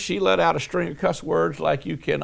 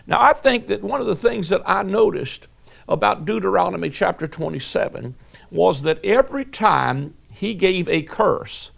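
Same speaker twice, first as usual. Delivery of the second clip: usual speaking voice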